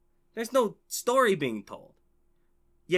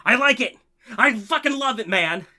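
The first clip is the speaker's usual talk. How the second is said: put-on childlike thrill; 3 semitones higher, 4 dB louder than usual. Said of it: "looking wistfully at the T V going".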